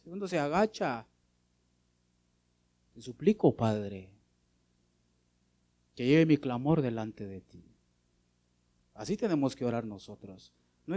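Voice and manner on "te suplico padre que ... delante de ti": bow your head and plead gently; humble pleading prayer. Shown as a demonstration. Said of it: "Hasta se cambia la voz".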